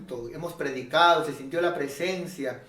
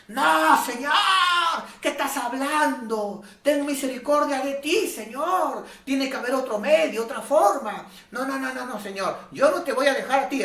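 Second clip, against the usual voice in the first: much higher, emotional pleading protest; Peter protesting; 8 semitones higher than usual. Retold or imitated. Peter pleading with Jesus, high and emotional. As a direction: beg the Lord not to die. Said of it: "Y Pedrito se levanta".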